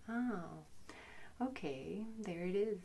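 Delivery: soft, accepting self-talk; quietly notice it and let it be, kindly; gentle friendliness. Acted. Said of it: "a tone of friendliness".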